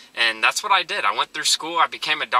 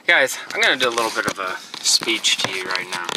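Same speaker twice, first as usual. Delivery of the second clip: whisper; 6 semitones lower than usual. Real, not acted. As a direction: lean in and whisper the setup. Whispered aside before a speech.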